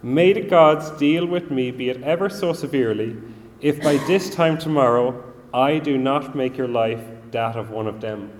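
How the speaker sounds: furious threat. Retold or imitated. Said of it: "she's absolutely furious".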